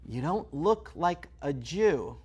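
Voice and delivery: slow, dry repeat; slow deadpan repeat. Acted. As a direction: say it back slowly and flatly. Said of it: "Okay, I kinda get it".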